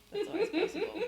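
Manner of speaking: laughed out high and loud; bursting into laughter on it; laughing. Real, not acted. Friend jokes about Mockney Germans, laughing.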